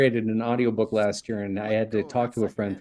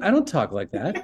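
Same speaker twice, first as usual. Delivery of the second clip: higher-pitched, indignant self-quote; mock protest; 4 semitones higher than usual. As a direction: protest your innocence with a laugh under it. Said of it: "And I was like".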